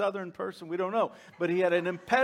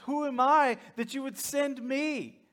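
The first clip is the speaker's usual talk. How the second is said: higher, imitated protest; Moses; 5 semitones higher than usual. Moses questions God's choice of him, acted-out arguing. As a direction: question it in a raised, arguing pitch. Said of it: "he starts arguing with God".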